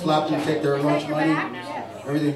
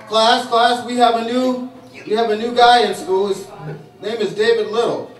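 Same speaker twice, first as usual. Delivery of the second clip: teacher announcing; 4 semitones higher than usual. Retold or imitated. Teacher introducing new kid.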